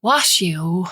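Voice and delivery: a hint of a little boy's command; a small boy bossing mama; lightly voiced toddler order. Toddler ordering his mother to wash, lightly voiced child. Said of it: "he orders".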